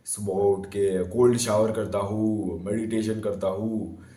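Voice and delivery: slow, drawn-out mock recital; mimicked routine recital. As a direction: imitate a boy slowly listing his routine. Mimicking boys reciting their routine.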